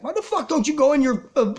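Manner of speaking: high, loud furious yell at the clerk; telling the pestering clerk off, high and loud; imagined angry outburst. Retold or imitated. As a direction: blow up and scream it at her. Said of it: "I didn't say that, but you know what I mean?".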